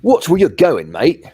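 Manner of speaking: high, loud English bloke barking at him; retold angry shout. Stranger bumps him, shouts at him.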